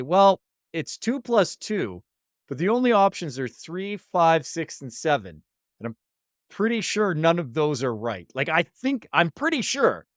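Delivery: high-pitched, lightly acted unsure student; mock a student doubting themselves, pitch climbing; hesitant student. Unsure student questions a test answer.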